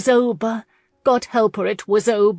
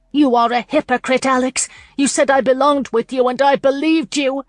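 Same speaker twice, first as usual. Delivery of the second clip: raised, louder angry accusation; crying out in anger; 5 semitones higher, 5 dB louder than usual. A narrator's reading. Lauren accusing Alex of hypocrisy, loud and angry. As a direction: hurl the betrayal back at him, loud and hurt. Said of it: "she cried out in anger".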